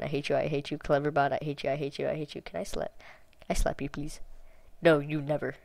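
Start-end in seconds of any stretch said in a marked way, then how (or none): 0.0-4.2 quiet repeated grumble; soft, fed-up muttering; muttered. Real, not acted. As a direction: mutter it under your breath. Muttering at chatbot.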